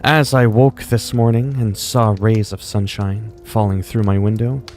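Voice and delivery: measured diary-style reading; storybook narration in character; story narration. Acted. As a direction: read it out like a ruler's journal.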